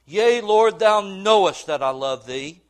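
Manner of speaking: loud, fervent declaration; fervent reply. Retold or imitated. Peter answering Jesus on the beach, loud and fervent. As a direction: answer like a man proving his love.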